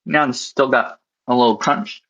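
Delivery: talking with a mouth full of food; chewing while talking, mouth full. Real, not acted. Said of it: "Sorry, I'm eating with my mouth full".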